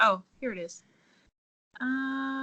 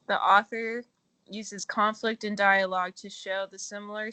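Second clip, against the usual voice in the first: choppy bad connection; words cutting out on a bad line; breaking up. Real, not acted. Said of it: "You guys are, like, breaking up".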